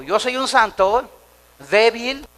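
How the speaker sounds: preacher leading a loud chant; loud call to repeat. Shown as a demonstration. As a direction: boom it out for the congregation. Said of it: "Diga conmigo".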